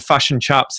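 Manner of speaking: imitated New Zealand vowels; New Zealand accent. Host quoting New Zealanders' vowels, in a mock New Zealand accent. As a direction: say it with Kiwi short i sounds. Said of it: "whenever I hear New Zealanders say".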